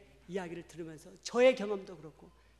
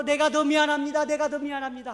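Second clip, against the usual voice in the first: mock mutual apology; 8 semitones higher, 15 dB louder than usual. Both apologizing to each other.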